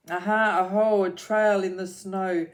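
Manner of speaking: loud, bright little explorer; excited discovery. Acted. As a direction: call out the find with glee. Gruffalo's child finds trail.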